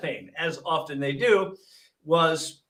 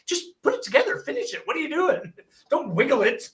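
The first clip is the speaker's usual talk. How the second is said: higher-pitched, half-laughing scolding; mock exasperation; 6 semitones higher than usual. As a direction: chide the nurse in comic disbelief. Retold exasperated scolding of nurse.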